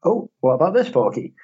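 high excited toy voice; squeaky high pull-string toy; toy voice line. Retold or imitated. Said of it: "It's just like".

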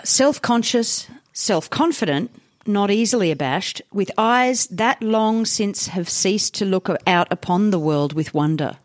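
put-on measured old-newspaper editorial reading; reading aloud. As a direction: read the article out with deliberate phrasing. Reads old article aloud.

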